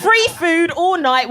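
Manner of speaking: high, very slow, loud dreamy drawl; dreamy swooning chef. Retold or imitated. Chef spotting the comic across the kitchen, dreamy high swoon. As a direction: swoon over the free food like it's love at first sight. Black chef's silent look voiced.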